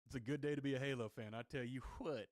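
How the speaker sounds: put-on quick, light Southern accent; a casual hint of a Southern accent. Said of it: "I don't know why I'm talking in a Southern accent".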